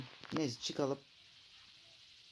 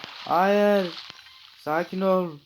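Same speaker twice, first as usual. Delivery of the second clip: loud, higher panicked plea; real fright as health drops; alarmed cry; 7 semitones higher, 8 dB louder, much slower than usual. Real, not acted. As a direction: beg it to calm down in alarm. Nearly dying in game.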